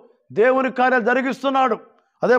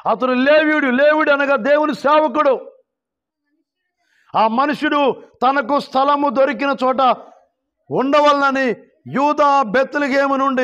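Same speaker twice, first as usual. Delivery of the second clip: raised, declaimed Bible reading; scripture reading; 5 semitones higher than usual. A narrator's reading. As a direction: read the verse out to the congregation in a lifted voice. Reads scripture aloud to congregation.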